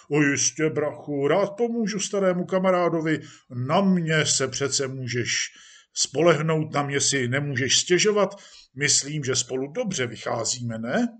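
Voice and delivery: lively, hearty patron; jovial police chief. Acted. Police chief promises actor help, jovially. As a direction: assure an old pal of your favour. Chief reassures his old friend.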